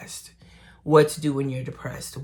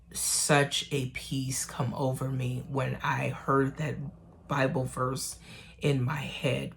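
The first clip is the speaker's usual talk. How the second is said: hushed awe; 7 dB quieter than usual. Real, not acted. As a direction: let the words fall to a breath of relief. Telling of peace over her.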